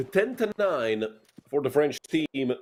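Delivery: slow mock French accent with a nasal "French"; very bad French accent. Caster jokingly calling the French team's round in a bad French accent. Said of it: "I tried to do a very bad French accent".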